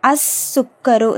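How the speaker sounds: அஸ் சுக்கரு slowly, l silent, doubled s; no l sound in அஸ் சுக்கரு, just a long s; silent lam. Shown as a demonstration. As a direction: draw out the s across அஸ் சுக்கரு. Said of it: "லாம் உச்சரிக்கப்படலை".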